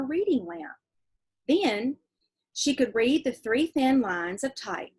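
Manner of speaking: reading a letter from a novel to the class; steady read-aloud voice for kids. Acted. Teacher reading a letter in a novel to her class, read-aloud voice.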